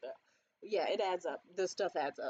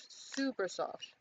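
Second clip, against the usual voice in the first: slow, savoring repeat of Super soft; Super soft drawn out slowly, relishing the texture; softly savoring; 3 dB quieter, much slower than usual. Shown as a demonstration. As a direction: linger on Super soft, stretching it out.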